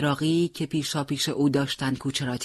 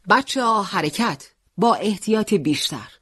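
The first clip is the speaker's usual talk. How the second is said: commander's order; 4 semitones higher than usual. Acted. Commander orders squad to move.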